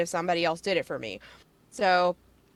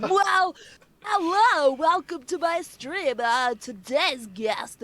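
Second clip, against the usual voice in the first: high, bright-on-cue host greeting, pitched way up and slowed; fake streamer voice; 7 semitones higher, 3 dB louder, slower than usual. Mocking her fake streamer voice to the podcast host. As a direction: put on a gushing streamer welcome. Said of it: "fake streamer voice".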